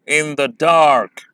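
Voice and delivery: very slow, with the weight on dark; in the dark with the stress landing on dark; anapaestic stress. Shown as a demonstration. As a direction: say in the dark weak, weak, strong. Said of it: "तीसरा syllable stressed होता है".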